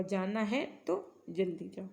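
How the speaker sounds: जाना है, pause, तो जल्दी जाओ said slowly; pause shown. Shown as a demonstration. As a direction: read it slowly with a comma pause after है. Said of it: "ऐसे बोलते हैं ना".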